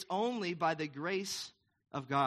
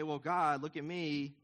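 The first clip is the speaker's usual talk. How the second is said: whiny, higher braggart begging God to notice him; boastful self-praise to God; 3 semitones higher than usual. Pretend. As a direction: show off to God like a needy kid, building to a shout. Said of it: "I can't boast and say".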